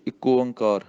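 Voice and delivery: ਇੱਕੋ ਓਂਕਾਰ rattled off fast; ਛੇਤੀ ਛੇਤੀ ਗਲਤ ਉਚਾਰਨ; rushed wrong way. Shown as a demonstration. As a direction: hurry it as a bad example. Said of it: "ਇੰਝ ਨਹੀਂ ਕਹਿਣਾ".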